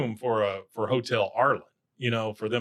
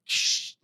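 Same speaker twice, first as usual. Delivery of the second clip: imitated glass crash. Imitates glass breaking in background.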